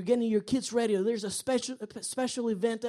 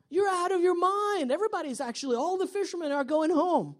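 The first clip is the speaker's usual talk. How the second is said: higher-pitched imagined objection, mounting; frustrated protest; 5 semitones higher than usual. Acted. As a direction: protest as the worried fisherman, voice climbing. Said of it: "that frustration".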